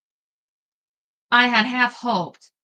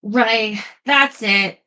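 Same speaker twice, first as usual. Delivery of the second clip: louder fed-up snarl; 5 dB louder, much slower than usual. Acted. Ashley snarls at the third incubus, loud and fed up. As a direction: bite off the words, done with it. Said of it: "I snarled".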